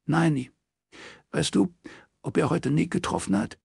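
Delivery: high-pitched, subdued troubled friend; understated upset, pitched high; strangely toneless. A narrator's reading. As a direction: hold back worry in a high voice. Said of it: "Ezas Stimme klang merkwürdig tonlos".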